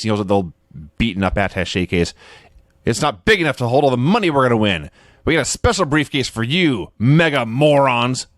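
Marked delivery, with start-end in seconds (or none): 2.9-8.3 lightly voiced heel taunting the opponents; wrestling promo taunt. Wrestler sneering at his opponents in a promo, mock boast.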